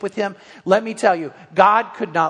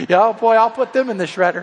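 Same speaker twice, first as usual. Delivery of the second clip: joking mock vengeance; 3 semitones higher, 6 dB louder than usual. Joking about shredding a grudge.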